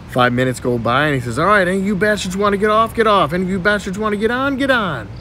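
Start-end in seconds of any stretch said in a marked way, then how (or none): 1.4-5.1 raised, sing-out announcing voice; train conductor. Acted. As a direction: call out stops like a bossy conductor. Boy playing train conductor.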